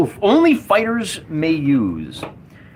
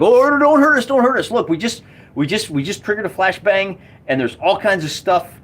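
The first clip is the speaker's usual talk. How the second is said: panicked pleading; 4 semitones higher than usual. Acted. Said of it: "we're like".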